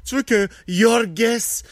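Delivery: voix aiguë de mari trop serviable; cocu empressé. Acted. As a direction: joue le mari soumis, plus aigu, tout empressé. (imitation aiguë d'un conjoint soumis et dévoué)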